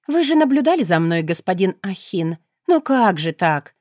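mock dismay, sarcastic and light; playful sarcastic dig; snide teasing. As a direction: needle him with a sly jab. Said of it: "поддела ехидно".

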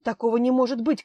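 rising to a loud cry of disbelief; a loud cry of protest; outraged shout. Acted. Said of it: "крикнул Астраханский".

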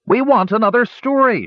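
high, loud shout across the room; shouting dwarf. Acted. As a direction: call out from the far side of the room. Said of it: "shouted a dwarf".

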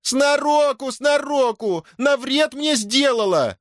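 high, slow shrill cry; daughter-in-law yelling at Дашутка; shrieking. Acted. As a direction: shriek the accusation. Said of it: "закричала Милодора".

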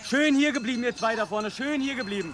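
hoch und laut gerufen, dann leiser; Ziegen zurückrufen. Acted. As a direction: halte die Ziegen zusammen. (Rufe, die leiser werden)

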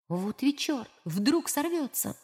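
very soft, slow fretting; muttered worry. A narrator's reading. Polydeuces frets quietly that the lead may slip. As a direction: worry under your breath.

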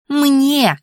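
high-pitched indignant cry; wailing. A narrator's reading. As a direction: wail it back high and insistent. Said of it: "заголосила Анфиса".

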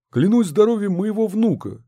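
the mayor loudly swearing on his grandson's health; exclaimed oath. A narrator's reading. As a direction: swear it out loud. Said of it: "воскликнул Мощин".

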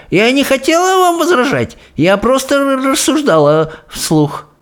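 high, faltering excuse; frightened outcry. A narrator's reading. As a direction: plead high, stumbling over the words. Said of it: "вскрикнула та".

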